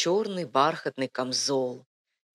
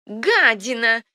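loud, high screech; old crone's piercing screech; shriek; 8 semitones higher, 8 dB louder, slower than usual. A narrator's reading. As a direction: screech the insult sharply. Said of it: "резко завизжала старуха".

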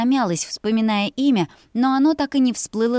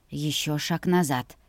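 usual speaking voice

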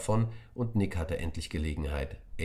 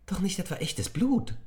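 a high shriek of disgust, then a hushed, slow whisper; shrieking girl who fears it's real blood; startled disgust; slower than usual. A narrator's reading. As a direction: recoil from the fake blood. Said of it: "fragte Emi erschrocken".

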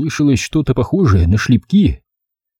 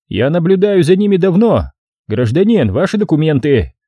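policeman; 6 semitones higher than usual. Acted. Policeman takes charge.

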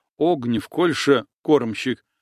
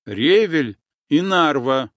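louder, firm commanding repeat of the password; iron in the voice; 3 semitones higher, 4 dB louder than usual. Acted. Nastya firmly ordering the boatman with the password, iron-voiced. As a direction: say it like an order, not a plea. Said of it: "В голосе Насти заиграли железные нотки".

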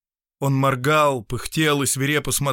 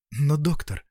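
put-on lighter, higher voice of a gentle young woman; young woman's voice; 7 semitones higher than usual. Anna urges the doctor to do good, in a higher young woman's voice. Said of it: "сказала Анна Даниловна".

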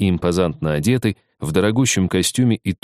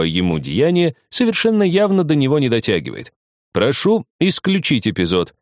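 fervent lawyer; 5 semitones higher than usual. Acted. Lawyer argues fervently in court.

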